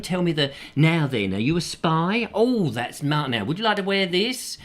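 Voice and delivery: showy patter with drawn-out catchphrases; game-show host. Acted. Game-show host hosting as James Bond, teasing and showy.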